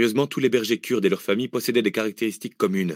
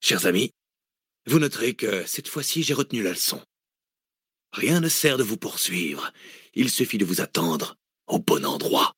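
triumphant villain. A narrator's reading. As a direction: savour the victory, unhurried. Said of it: "Il triomphait".

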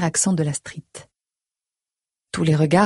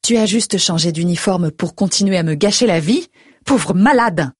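angry. Acted. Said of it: "Je l'apostrophe".

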